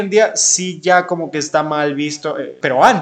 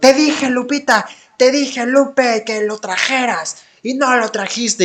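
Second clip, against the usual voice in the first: high-pitched angry scolding; 7 semitones higher than usual. Retelling how their aunt got angry at their girlfriend, imitating her angry scolding. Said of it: "Mi tía se enojó".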